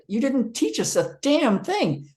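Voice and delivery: retold grumble with damn; indignant complaint. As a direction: drag it out in protest. Complaining about seminar.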